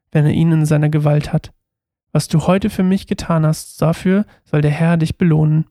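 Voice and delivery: measured read-aloud narration; Bible story reading. A narrator's reading. Reading the story of David and Saul aloud, measured narration. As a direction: read the passage evenly, pausing between phrases.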